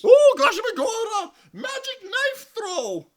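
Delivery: laughing. Real, not acted. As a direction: laugh through the words. Laughing at knife attack.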